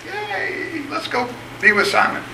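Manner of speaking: squeaky high mock yay, trailing off; mock cheer. Disciples cheering for Simon, squeaky mock excitement. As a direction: cheer like a giddy crowd of followers. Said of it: "they're like".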